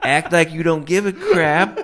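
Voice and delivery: a cool guy's advice, broken up by laughter; cool guy laughing. Retold or imitated. Host imitating Damone's smooth advice, laughing through it. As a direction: play it cool but keep cracking up.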